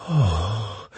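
breathy moaned oh; soft moan. A narrator's reading. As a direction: let out a small moan. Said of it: "she moaned".

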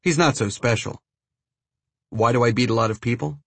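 put-on light Brazilian accent; a hint of a Brazilian accent. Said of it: "in his thick Brazilian accent".

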